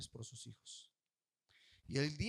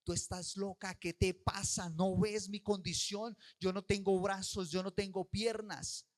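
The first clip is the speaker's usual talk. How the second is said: louder, slow exasperated yell; retold yelling; 2 semitones higher, 5 dB louder, slower than usual. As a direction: yell it at a mother gone mad. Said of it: "ella gritaba y le decía". (niña grita a su mamá, exasperada y fuerte)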